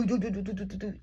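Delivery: a soft rhythmic do do mimicking a machine; ventilator imitation. Mother mimics the NICU ventilator's rhythm, soft imitation. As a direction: copy the ventilator's pumping beat. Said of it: "That's how it sound".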